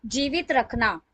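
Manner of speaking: measured reading with phrase-by-phrase pauses; formal tribute recital. Acted. Devotee reading her written lines to the satsang, formal recital.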